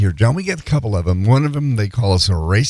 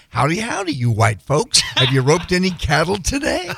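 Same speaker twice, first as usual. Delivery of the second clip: mock cowboy; 7 semitones higher than usual. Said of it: "started interviewing you".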